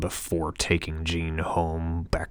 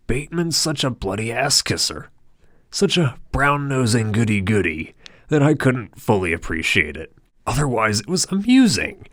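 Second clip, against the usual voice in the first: higher, louder scornful gossip; mocking Harold; 6 semitones higher, 5 dB louder than usual. A narrator's reading. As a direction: sneer at Bateman like a snob.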